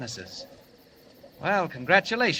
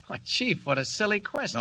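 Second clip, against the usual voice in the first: laughing it off; 4 semitones higher than usual. Acted. Kent laughs off Superman question.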